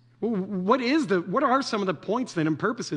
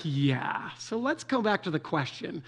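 patient but exasperated correction; a touch of exasperation; 5 dB quieter than usual. Acted. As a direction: set them straight, tired of the dodge. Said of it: "in an exasperated tone".

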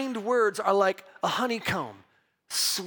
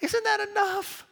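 mock baffled self; 12 semitones higher than usual. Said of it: "I'm like".

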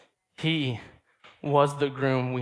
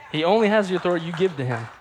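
louder, fast, laughing; emphatic laughing repeat; 3 semitones higher, 6 dB louder, much faster than usual. Real, not acted. Preacher repeats to the church, louder, fast and laughing. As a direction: drive it home with a laugh. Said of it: "repeats the point".

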